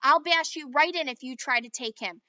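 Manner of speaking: loud heated squabble; kids' quarrel. A narrator's reading. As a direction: argue hotly over the toy. Children quarrel.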